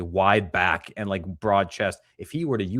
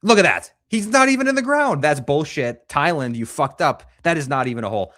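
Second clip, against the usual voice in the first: much higher and louder, outraged; indignant outburst; 6 semitones higher, 6 dB louder than usual. Real, not acted. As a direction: shout at the screen in disbelief. Outburst at the video.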